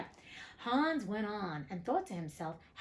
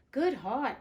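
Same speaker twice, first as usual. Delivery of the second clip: a louder burst of joy; delighted exclamation; 4 semitones higher, 6 dB louder than usual. A narrator's reading. Hans delighted with his cow, a louder happy burst. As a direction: let the delight spill out.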